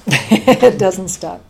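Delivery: drawn out slowly around a laugh; slow laughing repeat. Real, not acted. To the host, repeating herself, slowed right down with a laugh. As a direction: stretch it out, amused and disbelieving.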